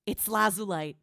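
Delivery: gasp, then name it in awe; gasping realization. Real, not acted. Streamer gasps on recognizing her own team in the video. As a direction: catch your breath as you recognize them.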